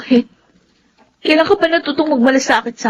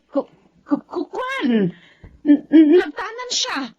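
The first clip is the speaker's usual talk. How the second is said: nervous stammer; slower than usual. Acted. Delia stammers lies nervously.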